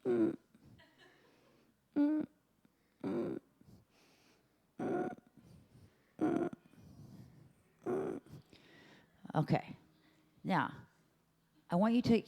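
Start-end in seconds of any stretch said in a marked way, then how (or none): 0.1-8.2 moan onset. Shown as a demonstration. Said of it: "beginning of a moan".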